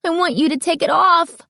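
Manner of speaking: put-on high, urgent girl's shout; girl demanding the owner remove the mask; insistent shout. A narrator's reading. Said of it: "insisted, shouting".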